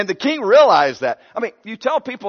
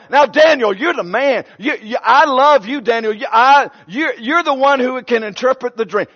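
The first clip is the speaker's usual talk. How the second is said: king coaxing Daniel, eager and urgent; lightly voiced king begging for an answer; pleading king; 3 semitones higher, 3 dB louder than usual. King pressing Daniel to interpret the dream.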